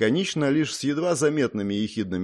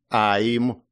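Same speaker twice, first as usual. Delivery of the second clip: mild accusing cry. A narrator's reading. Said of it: "обвинительно и с обидой в голосе выкрикнула".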